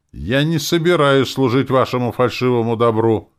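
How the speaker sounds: defiant sharp reply. A narrator's reading. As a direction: snap it back at the parents. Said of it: "резко проговорила Керри".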